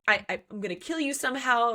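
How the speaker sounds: quick, stammering mild panic; imitating someone flustered; retold freak-out. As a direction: stammer it out fast, half-panicked. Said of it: "He's, like, freaking out".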